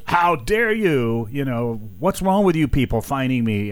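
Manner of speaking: lightly hammed-up indignation; mock indignant. Mocking the indignant player who was fined. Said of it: "he was indignant".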